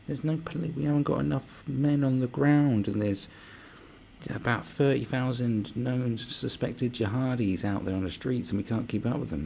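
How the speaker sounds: high, slow mock whine; hammed-up whingeing official; mocking a whiny police chief pleading poverty; whining police commissioner. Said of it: "whining on about".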